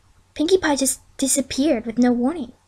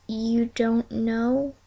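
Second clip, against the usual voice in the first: dismayed; 8 dB quieter, much slower than usual. A narrator's reading. Twilight realises they are lost.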